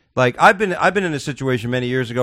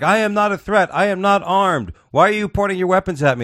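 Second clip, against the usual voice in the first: mock pleading man; 7 semitones higher than usual. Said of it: "He's like".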